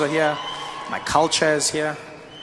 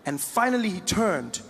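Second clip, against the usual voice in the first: usual speaking voice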